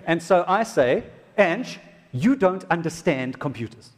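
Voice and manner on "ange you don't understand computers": slow, patronising, leaning on you; mock condescending husband. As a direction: talk down to her slowly. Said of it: "I didn't even say it like that".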